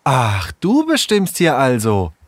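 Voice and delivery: high, provoking question with rising end; challenging. A narrator's reading. Sarah challenging Tom before the gang, provocative. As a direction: goad them, voice climbing at the end. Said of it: "Herausfordernd starrte Sarah Tom".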